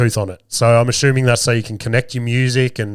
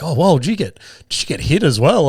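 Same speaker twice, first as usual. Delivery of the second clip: put-on higher, curious kid questioning; lightly voiced boys; 5 semitones higher than usual. Sons asking dad if he got hit, curious. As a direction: lightly imitate an inquisitive son, pitch up. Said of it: "the boys just start talking".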